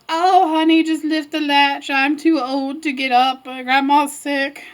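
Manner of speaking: lightly voiced old grandma, drawn out; slow, put-on feeble granny; wolf posing as grandma. Wolf luring Red in as Grandma, mock feeble.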